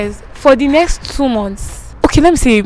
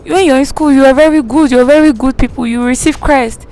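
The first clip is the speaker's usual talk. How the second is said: a hint of a preaching man; mimicking the preacher; 4 semitones higher than usual. Man preaches at her from the pulpit, mock sermon. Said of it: "he says".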